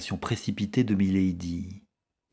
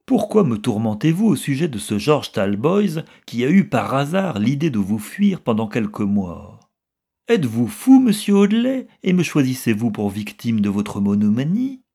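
loud and high, indignant outburst; angry outburst; 4 semitones higher, 6 dB louder than usual. Acted. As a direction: shriek at him in indignation. Milady lashes out at Robert.

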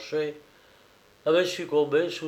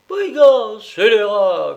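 much higher, louder shriek; shrill cry; 8 semitones higher, 10 dB louder, slower than usual. A narrator's reading. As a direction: squeal the insults like a clown. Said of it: "cria le jocrisse d'une voix aiguë".

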